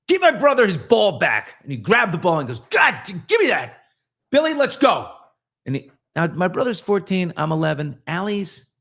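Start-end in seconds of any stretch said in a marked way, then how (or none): 0.1-1.5 louder, higher angry command; brother snapping. Retold or imitated. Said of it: "he snapped". 2.7-5.1 higher, louder grumbling bully; grudging mock whine; sulky bully. Bully grudgingly handing ball back.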